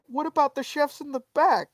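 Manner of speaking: high-pitched mimicking question; mock indignant owner. Owner pleading for the chefs, high mock indignation.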